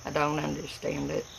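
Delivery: easy Appalachian country speech; appalachian accent. Real, not acted. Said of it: "I sound like a hillbilly".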